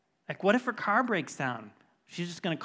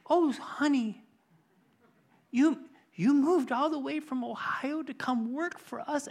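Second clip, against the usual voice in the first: higher, tender imitation of a sweet woman; touched, near tears; 8 semitones higher than usual. Sweet woman learning how far the new worker moved, imitated tender amazement. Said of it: "this sweet woman just almost started crying".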